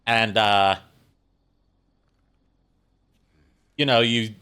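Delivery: put-on Australian accent. Shown as a demonstration. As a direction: explain it while imitating an Australian. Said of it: "less of an oi and more of an I".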